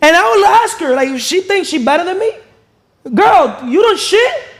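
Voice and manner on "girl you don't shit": sarcastic, mocking tone. Showing how she would question a woman who acts superior, sarcastic. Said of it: "I say it in a sarcastic".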